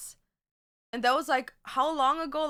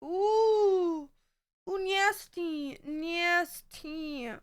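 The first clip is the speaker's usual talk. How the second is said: sassy drag queen; 5 semitones higher, much slower than usual. Pretend. Sassy reaction to own look.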